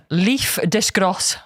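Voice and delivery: slow, careful German-style reading; German-style pronunciation. Shown as a demonstration. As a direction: sound it out as if German. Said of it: "pronouncing them as if they're German".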